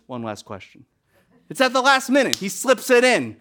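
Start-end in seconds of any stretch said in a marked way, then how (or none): 0.1-0.8 detective's aside. Retold or imitated. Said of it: "He turns around and goes".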